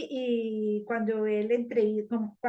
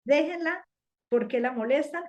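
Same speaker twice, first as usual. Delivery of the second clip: high, firm rebuke; the Lord's command; 4 semitones higher than usual. Retold or imitated. The Lord rebukes those criticizing the woman, high and firm. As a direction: speak up for her, pitched up high. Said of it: "El Adón dijo".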